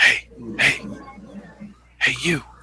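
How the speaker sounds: voice dropped down to a whisper. A game master voices someone in the crowd calling to the players, whispering. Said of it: "somebody is whispering".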